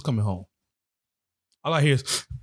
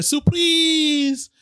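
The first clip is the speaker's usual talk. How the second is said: much higher, loud yell; group shout; 3 dB louder than usual. Retold or imitated. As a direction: shout it as he walks in. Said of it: "they hit you with the".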